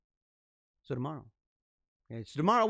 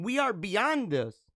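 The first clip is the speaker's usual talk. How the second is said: slow emphatic declaration; 3 semitones higher, slower than usual. Retold or imitated. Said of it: "and saying".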